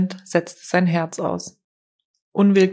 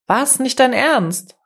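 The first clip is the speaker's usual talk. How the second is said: higher, startled outcry; surprised exclamation; 6 semitones higher, 4 dB louder, slower than usual. A narrator's reading. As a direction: call out in disbelief at his friend leaving. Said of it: "rief Marius aus". (Marius ruft ungläubig und höher aus)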